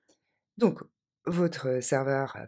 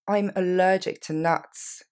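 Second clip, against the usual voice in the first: slow model; 3 dB louder, slower than usual. Shown as a demonstration. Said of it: "Je suis allergique aux noix".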